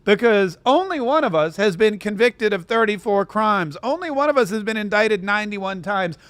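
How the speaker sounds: mocking her debate line. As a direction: mimic a smug rehearsed debate line. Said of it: "she was like".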